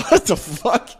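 a stunned high what the fuck; mock disbelief. Retold disbelief.

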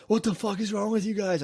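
high-pitched mock panic; retold freak-out. Freaking out at two girls over suspected drugs, high retold panic. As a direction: act out freaking out, voice jumping up. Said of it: "I started freaking out at them".

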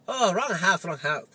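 mock Asian accent, apologetic caller; poor Asian accent impersonation. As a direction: do a clumsy Asian-accented visitor. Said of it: "This is a poor, uh, poor impersonation".

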